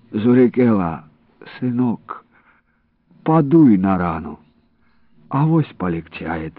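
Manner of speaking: usual speaking voice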